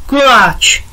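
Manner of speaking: výš a nahlas, nadšený výkřik; vykřikl. A narrator's reading. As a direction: vyhrkni to, jako když ucítíš dobrotu. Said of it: "vykřikl Lukáš". (Lukáš vyskočí z gauče a nadšeně vykřikne)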